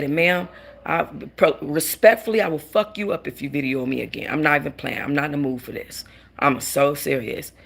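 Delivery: calm, deadly serious warning; controlled, respectful menace. Retold or imitated. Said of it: "I said it very calm".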